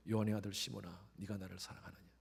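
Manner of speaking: quiet, tender asking; soft question. Acted. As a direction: ask gently, almost fading. Jesus asks softly. (예수님이 베드로에게 조용히 묻는 목소리)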